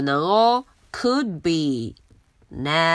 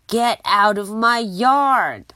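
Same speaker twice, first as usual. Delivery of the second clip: louder shout with the stress on yard; angry yell; 2 semitones higher, 3 dB louder than usual. Acted. Angry neighbour chasing the pig out of her yard. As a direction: make the word yard land hard. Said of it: "Eugenia真的很生气".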